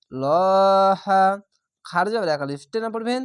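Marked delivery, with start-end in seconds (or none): 0.1-1.2 লহা very slow and louder, thick ল; heavy lam. Shown as a demonstration. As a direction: draw out লহা with a full heavy ল. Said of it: "আল্লাহ লেখাটি মোটা করা হবে".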